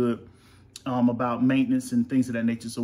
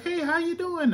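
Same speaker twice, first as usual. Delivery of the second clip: teacher voice. Retold or imitated. Teacher greeting voiced high.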